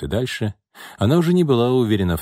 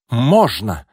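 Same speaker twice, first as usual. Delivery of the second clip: loud, higher one-word retort; defiant exclamation; 4 semitones higher, 6 dB louder than usual. A narrator's reading. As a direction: fire back in contradiction. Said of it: "воскликнул Яков". (запальчивый возглас)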